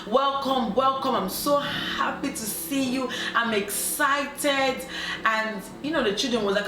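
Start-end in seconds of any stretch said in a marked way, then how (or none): 0.1-4.9 drawn-out, mildly gushing greeting; imitated happy homecoming, slowing at the end; excited welcome. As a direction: act out a delighted spouse's welcome. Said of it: "her husband welcomed her".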